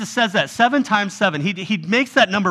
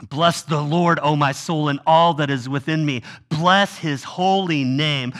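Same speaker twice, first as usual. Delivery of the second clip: lower, unhurried psalm reading; scripture reading; 3 semitones lower than usual. Acted. Preacher reads the psalm to the congregation, reverent reading. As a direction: read it like a prayer.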